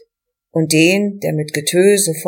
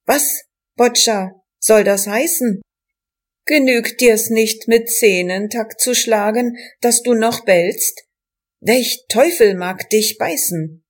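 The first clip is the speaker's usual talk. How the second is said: called out; 4 semitones higher than usual. Acted. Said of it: "bis einer rief".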